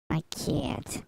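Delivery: put-on New York accent, stretched vowel. Streamer cooing over the cat, New York accent. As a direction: say it like a New Yorker. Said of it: "why that requires a New York accent".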